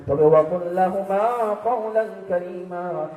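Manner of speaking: intoned questioner. Acted. Preacher voices the questioner, intoned.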